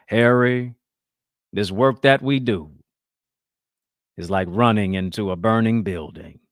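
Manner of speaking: hint of a bellowed Southern Baptist drawl; Martin Luther King bellow. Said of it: "bellows in his iconic Southern Baptist drawl".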